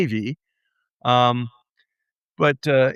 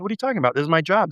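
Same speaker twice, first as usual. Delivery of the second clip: mock indignant; 6 semitones higher, much faster than usual. Defending himself, retold.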